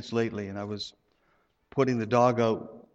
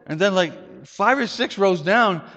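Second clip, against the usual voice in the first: ordinary delivery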